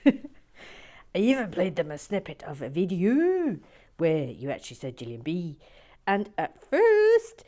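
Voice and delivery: hammed-up Northern Irish with big swoops; exaggerated, badly faked Northern Irish accent; attempted Northern Irish accent. Resuming the viewer's letter, attempted Northern Irish accent. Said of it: "to do a Northern Ir".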